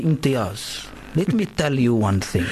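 put-on doctor's Moroccan accent, sounding almost Italian; imitated Moroccan accent. Doctor addressing his student, in an imitated Moroccan accent. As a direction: imitate a Moroccan professor, a touch mafia godfather. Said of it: "It sounds like Like Italiano or something".

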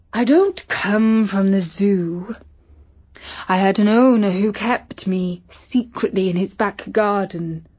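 lightly voiced cat, wistful; a lonely cat explains itself; a hint of a talking cat; cat telling story.

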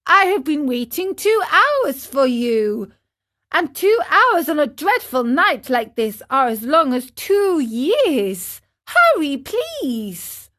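high-pitched pleading from below; Pinocchio. Acted. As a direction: implore the snail to hurry. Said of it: "cried Pinocchio from the street".

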